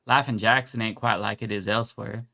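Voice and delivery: reading in a mild put-on Southern accent. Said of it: "you sound racist as hell".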